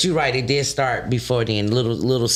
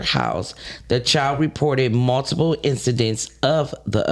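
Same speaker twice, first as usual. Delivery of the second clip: news read. Acted. Reads the news segment.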